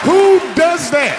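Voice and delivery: high, loud, drawn-out disbelief; mock outrage. Comedian appalled that wife looked in the box, mock outraged. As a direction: cry it out slowly as if scandalized.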